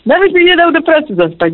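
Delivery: real crying while telling; voice breaking into tears. Real, not acted. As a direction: let the sentence crack as real tears come. Widow recalls husband, voice breaks.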